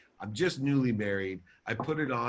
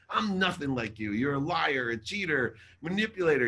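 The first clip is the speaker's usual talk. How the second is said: higher-pitched, mounting accusation; retold accusation; 4 semitones higher than usual. Son denying he is like his dad, accusing. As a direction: re-enact an angry list of charges.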